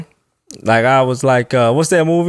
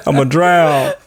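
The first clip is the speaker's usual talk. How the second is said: laugh-crying; 3 semitones higher, slower than usual. Retold or imitated. Mock panic after drinking water.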